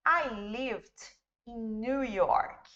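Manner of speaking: slow, careful English read-out of "I lived in New York"; teacher reads the example sentence slowly and clearly; model English sentence. Shown as a demonstration. Teacher to class, model reading: slow, careful English. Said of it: "com o verbo to live".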